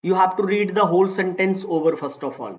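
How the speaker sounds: slow dictation. Shown as a demonstration. Teacher restates rule in English.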